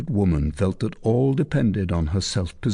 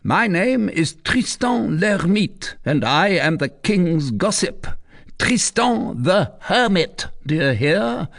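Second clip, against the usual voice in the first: boastful commander; 10 semitones higher than usual. Acted. Tristan announcing himself to the recluse, proud. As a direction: make her fear the name.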